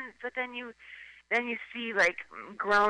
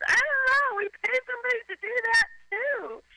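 mock entitled rich person. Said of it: "It's like".

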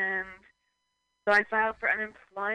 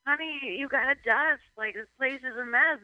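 slightly higher, lightly voiced husband; imitated husband; 5 semitones higher than usual. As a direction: nag about the mess. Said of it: "they're like".

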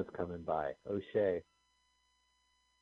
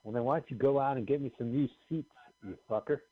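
condescending singer impression; 2 semitones higher than usual. Retold or imitated. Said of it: "Like real condescending singer".

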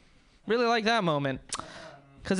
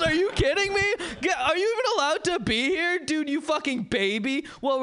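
mock disdain; 3 semitones higher than usual. Comic scoffing at a young crowd member, mock disdain. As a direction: sneer at the baby in the crowd.

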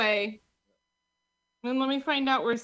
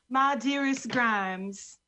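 letter-writing voice; 2 semitones lower, much slower than usual. Pretend. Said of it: "And then I write letters to Grimes".

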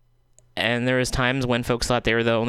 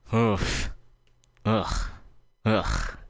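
withering sigh; much slower than usual. Real, not acted. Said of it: "that's my sigh".

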